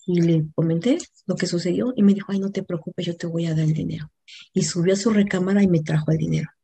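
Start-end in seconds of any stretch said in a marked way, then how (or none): 2.3-4.1 papá tranquilizador, imitado en voz baja; consuelo paterno. Retold or imitated. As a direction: calmar suavemente, como un padre. (consuelo paterno, bajito y sereno)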